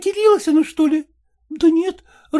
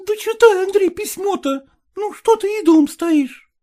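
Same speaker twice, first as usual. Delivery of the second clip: high, urgent call; mild call across the fire; impatient shout. Acted. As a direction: hurry him up with a cry. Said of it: "крикнула".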